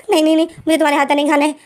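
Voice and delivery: hasty panicked refusal; quick flustered refusal. Acted. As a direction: push the refusal out fast and high. Doctor refuses his cooking.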